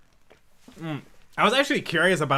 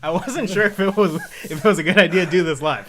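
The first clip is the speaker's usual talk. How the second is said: laughing; 4 dB louder than usual. Real, not acted. Laughing at friend.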